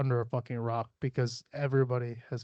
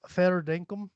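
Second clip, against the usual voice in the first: higher, off-target Aussie accent; botched Australian accent; 4 semitones higher, 4 dB louder than usual. Shown as a demonstration. Reading slang aloud, badly faked Australian accent. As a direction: miss the Australian accent, pitched up. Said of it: "that was not Australian".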